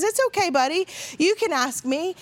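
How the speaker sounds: host gently inviting the boy to ask, lightly voiced; kind reassurance. Host kindly encourages boy.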